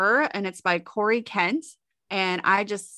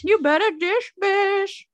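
sassy hype; 11 semitones higher than usual. Real, not acted. Hyped echo of segment name.

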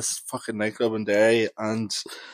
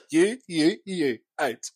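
commanding shout; 5 semitones higher, 4 dB louder, much slower than usual. Retold or imitated. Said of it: "walked into the girls' toilets like".

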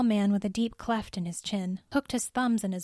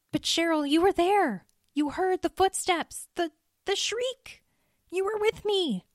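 much higher, pressing insistence; emphatic; 10 semitones higher than usual. Acted. Andy insists to doubting Cheryl she heard it, emphatic and much higher. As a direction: plead that she was there too. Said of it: "Andy said emphatically".

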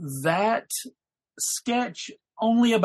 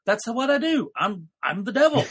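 lightly voiced smug devil; 3 semitones higher than usual. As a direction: say it like a proud little devil. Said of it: "And then he says".

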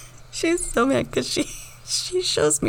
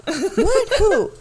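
sassy; 7 semitones higher, 4 dB louder, slower than usual. Pretend. Acted office gossip skit.

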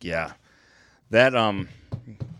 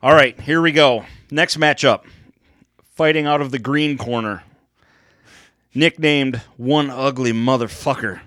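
boxing ring announcer. Acted. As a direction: hype the fighters to the crowd. Introducing fighters like ring announcer.

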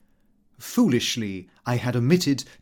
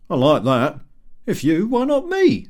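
louder, rising at the end, brash; loud coarse retort; 4 semitones higher, 6 dB louder than usual. A narrator's reading. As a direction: throw it back loud and brash. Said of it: "with a loud, coarse laugh".

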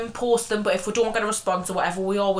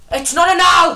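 higher, louder correction of owl; mock correcting shout; 8 semitones higher, 9 dB louder than usual. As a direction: bark the correction like a fussy elder. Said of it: "She went".

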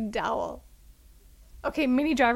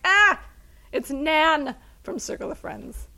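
excited recognition; 5 semitones higher, 4 dB louder, slower than usual. Retold or imitated. Recognizing actress in another film.

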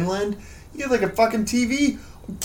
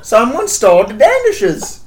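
hammed-up Danish accent, louder; mock Danish accent; 5 dB louder than usual. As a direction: play a cheesy Danish show host. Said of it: "your Danish accent".

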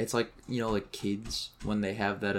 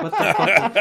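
retold outburst; 9 semitones higher, 11 dB louder than usual. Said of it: "And they were like".

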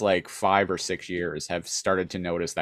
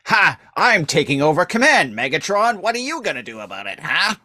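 much higher, loud mocking taunt; taunting Starscream; 7 semitones higher, 4 dB louder, faster than usual. Starscream gloating over Megatron, high, loud and fast. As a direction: jeer at the fallen leader, high and fast. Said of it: "Starscream is like".

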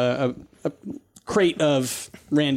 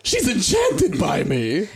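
silly clown; 2 semitones higher, much slower than usual. Acted. Voicing the vain character.

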